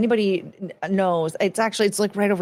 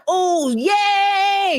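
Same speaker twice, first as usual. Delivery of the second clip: much higher, squealed yay; excited yay; 12 semitones higher, 4 dB louder than usual. Real, not acted. Streamer cheers a gift going to a viewer, excited. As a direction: squeal with delight. Reacts to gifted membership.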